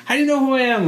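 high-pitched panicky imitation; retold alarm in a squeaky-high pitch; mock freak-out. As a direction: act out freaking out, voice shooting way up. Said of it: "he's, like, freaking out".

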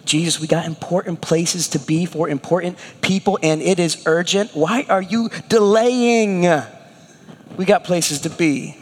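a hint of hurried, nagging followers; impatient disciples. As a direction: mildly pester him that you're late. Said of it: "you can just imagine the disciples having been like".

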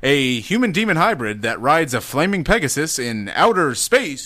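dramatic read rising to the last word; adopted announcer voice. Acted. Host rereading the quiz option, dramatic announcer voice. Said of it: "I just adopted that voice".

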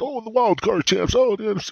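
mock announcer. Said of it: "they're like".

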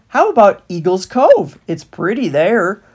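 sly stallholder. A narrator's reading. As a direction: sell it to them. Stallholder pitching places.

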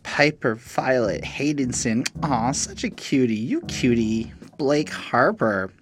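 lightly voiced teacher reading names; teacher doing roll call. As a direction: call out the register, drawn out. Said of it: "it's a teacher doing roll call".

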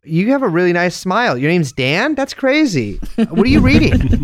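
overeager, swooping small talk; hyped-up stranger chat. Pretend. Hyped-up rider pesters a random passenger, mock-eager. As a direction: play a passenger far too keen to chat. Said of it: "really hyped up for talking to random people".

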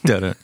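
sung "Dun-dun" after a pun; mock rimshot. Real, not acted. Marking his own dad joke with a sung sting. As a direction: hum the little joke sting. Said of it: "Dad joke of the day".

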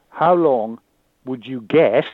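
"guess" picked out with deliberate emphasis; stress on GUESS. Retold or imitated. Patient asking a doctor for a prognosis, stress on "guess". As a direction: lean on the word "guess". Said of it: "I emphasized that word".

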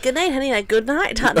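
a light put-on British accent; lightly hammed British goodnight; mock British accent. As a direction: tease a partner faking British. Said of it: "talk with a British accent".

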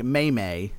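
"May May" as two long AY syllables; wrong pronunciation demo. Shown as a demonstration. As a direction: say "May May" slowly, rhyming with day. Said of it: "Don't pronounce meme like".

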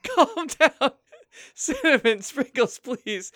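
high plea that falls away; flustered pleading. Acted. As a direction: beg the fighters to settle down. Host pleads with fighting elves.

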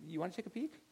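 softly baiting his daughter to look; hushed tease. Retold or imitated. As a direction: murmur it like a secret nudge. Dad quietly prompting daughter.

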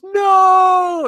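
high, loud mock shout; retold shout. The kid sees the aliens outside, shouting in mock horror. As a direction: yell it at the window in horror. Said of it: "he goes".

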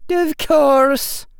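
high, loud, resigned witch voice; resigned sigh. A narrator's reading. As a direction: she gives up with a sigh. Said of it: "sighed Professor McGonagall".

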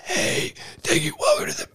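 high strained voice breaking; hammed-up wrecked voice squeaking; cracking voice. Shown as a demonstration. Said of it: "we'll see what happens after an hour and a half".

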